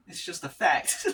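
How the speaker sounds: hammed-up imitation of a senator's sure claim; Marco Rubio impression. Retelling the impressionist's Rubio bit, loud high mock voice. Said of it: "he was like".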